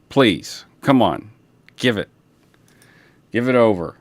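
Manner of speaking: mildly frustrated dog pleading; a light nag from the dog for the treat; frustrated please. Pretend. Dog owner voicing a pet, lightly frustrated pleading. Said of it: "a frustrated please".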